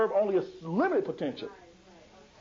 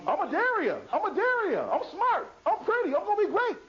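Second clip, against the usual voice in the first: put-on high, proud child's voice; child repeating it; 11 semitones higher than usual. Girl Adaria repeats the praise back, high and proud. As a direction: say it like a little girl proud of herself. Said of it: "what does she say?".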